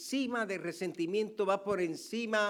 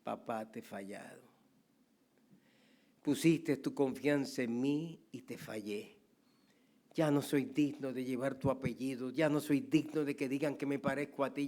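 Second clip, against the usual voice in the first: tearful confession; 4 semitones lower than usual. Acted. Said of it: "con lágrimas y llorando".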